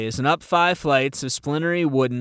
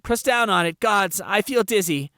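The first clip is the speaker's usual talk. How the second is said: panicked guard; 7 semitones higher than usual. Acted. Bleeding guard demands help.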